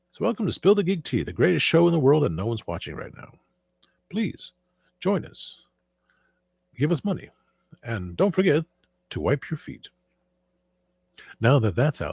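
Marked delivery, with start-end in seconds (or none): 0.1-9.9 high, swooping announcer patter; Movie Phone announcer. Acted. Streamer plugging the show to viewers, in phone-line announcer voice. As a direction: pitch it high like a recorded greeting. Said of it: "movie phone voice".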